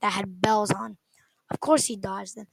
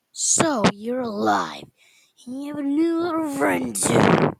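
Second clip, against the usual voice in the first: smug, taunting higher voice; annoying voice; 5 semitones higher, 5 dB louder, slower than usual. Acted. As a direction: needle him with a smug sneer. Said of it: "he said in the same annoying voice".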